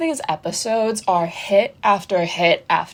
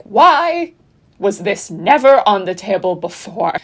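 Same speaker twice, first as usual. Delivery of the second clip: mock outraged demand; 5 dB louder than usual. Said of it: "because they're like".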